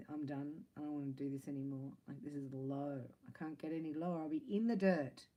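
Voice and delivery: despair to outburst. Retold or imitated. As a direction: start defeated, end with a frustrated cry. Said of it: "You know, like that".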